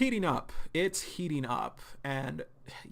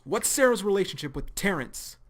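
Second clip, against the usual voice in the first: yell; 5 semitones higher, 6 dB louder than usual. Acted. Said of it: "he yells".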